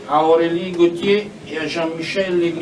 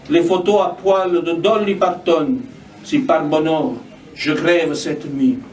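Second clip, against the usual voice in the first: measured lines with falling cadences; spoken poetry reading; poem recitation. Acted. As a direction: recite it as verse, pausing between lines. Reads own poem aloud.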